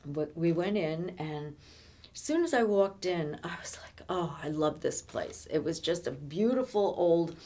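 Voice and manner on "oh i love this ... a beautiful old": whispered in wonder; awed whisper. Retold or imitated. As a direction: breathe it out as a hushed whisper. Reliving delight on arrival.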